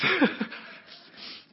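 breathy burst of laughter. Real, not acted. Preacher amused recalling his warning to a friend, laughing. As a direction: laugh at your own story.

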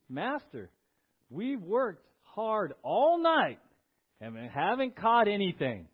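weary, irritable protest, leaning on HARD and ALL NIGHT; irritable Peter. Acted. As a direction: protest like a worn-out, irritable fisherman. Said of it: "Listen to Peter's tone".

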